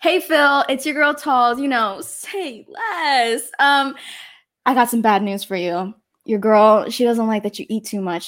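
a lightly hammed-up influencer video message; cheery, chatty personal video to a stranger; upbeat video shoutout. Host asks for a demo video, so she records a peppy breakup shoutout. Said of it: "you wanna do a note, a video?".

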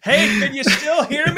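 distant ghostly off-mic voice; far from the mic. Real, not acted. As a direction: lean away from the mic and call. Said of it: "If you wanna sound like a ghost".

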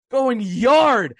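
excited announcer call. Real, not acted. Home run call.

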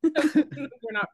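slow, laughing through the words; chuckling as you say it. Real, not acted. Laughing while saying it's a joke.

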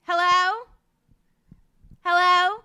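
acted-out bad phone call; dramatic lyric reading. Guest reading a singer's lyrics as a phone call, hammed-up. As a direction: call loudly down a bad line, playing it up. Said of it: "have you read some lyrics of hers".

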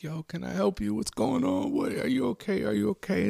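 acted worried wife, loud and insistent; alarmed concern. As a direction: check on him in alarm, pitch climbing. Alarmed wife questioning screaming husband.

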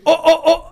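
high, loud repeated yelps; imitated shouting tic. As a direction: burst out in short "ô" cries.

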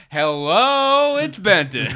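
high, loud chirpy voice assistant; phone voice greeting its owner; mock GPS voice. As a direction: announce yourself like a cheery phone voice. Prank GPS voice as Benton.

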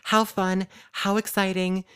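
loud, upbeat host intro, a bit hammy; weird podcast intro voice. Pretend. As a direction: play an over-the-top show host. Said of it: "that was a really weird intro".

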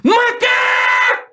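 very high, slow, drawn-out yell; shouting the tic at full force. Shown as a demonstration. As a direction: let it ring out long and high. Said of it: "Desse jeito".

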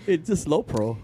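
slow, drawn-out answer through laughter; laughing. Real, not acted. Storyteller brushing off a friend's question about peanuts, laughing.

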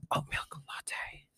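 talking mid-sip; words half lost in a sip; sipping through a straw. Real, not acted. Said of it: "sorry, I'm drinking".

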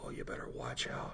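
whispered ominous warning, no voice; mock warning whisper. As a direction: breathe the warning like a secret. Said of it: "And she goes".

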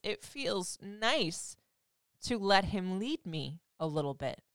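slowed-down admission that it feels nice; slow, savoring. Real, not acted. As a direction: linger over "It feels nice", slowly. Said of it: "dare I say this?".

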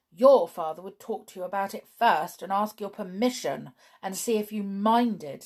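sulky girl, voiced aloud. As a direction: grumble it like a hurt child. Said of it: "said George sulkily".

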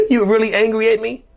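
a caricature blowing up at being blamed; mock narcissist rage. Cheater explodes at the partner, mock shriek. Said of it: "they lose their minds and start yelling".

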